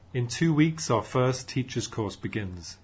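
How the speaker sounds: loud, projecting talk to an audience; speaker addressing a room. Acted. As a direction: address the room like a keen young group leader.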